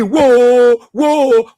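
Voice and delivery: long drawn-out mock wail of "whoa"; imitated wailing. People crying on your knee, imitated wailing. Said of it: "when people cry on your knee".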